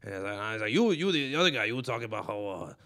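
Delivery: lightly voiced Joey Diaz riffing at the crowd; a hint of Diaz working the room, fast; comic riffing on a heckled open-micer, lightly imitated; Joey Diaz impression. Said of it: "That's a good impression".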